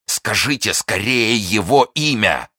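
loud, high, drawn-out plea; urgent cry. A narrator's reading. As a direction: demand it desperately. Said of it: "вскричал Фельтон".

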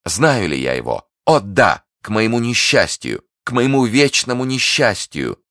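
high, loud lament, building; theatrical despair. Acted. Prisoner asked if she knows the duke, despairing and loud. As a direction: wail the misfortune with rising intensity. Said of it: "как бы в припадке отчаяния".

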